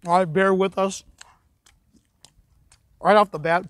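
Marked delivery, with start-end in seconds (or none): 3.0-3.7 talking with a mouth full of candy. Real, not acted. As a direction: chew and talk at once, mouth full. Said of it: "pardon my, me talking with my mouth full".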